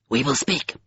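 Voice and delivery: creature speaking in a cold, dusky tone. A narrator's reading. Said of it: "a cold, dusky voice said".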